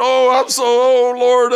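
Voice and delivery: high, loud weeping plea; a crying voice begging the Lord; acted anguished cry. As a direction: wail it out to the Lord, overwhelmed.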